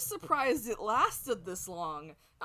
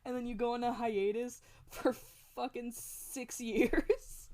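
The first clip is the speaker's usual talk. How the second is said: raised-pitch retold indignation, breaking into laughs; upset disbelief; 5 semitones higher than usual. Gamer recalling anger at a cliffhanger, indignant and amused. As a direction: protest in disbelief, drawing out the final words. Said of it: "made me so upset".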